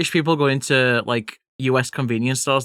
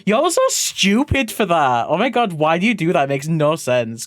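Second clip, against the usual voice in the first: mock scorn; 2 semitones higher than usual. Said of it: "I'm not gonna be like".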